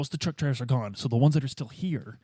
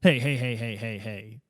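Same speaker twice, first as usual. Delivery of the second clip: good cop whisper; 4 semitones lower, 3 dB quieter, slower than usual. Acted. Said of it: "so then I come in".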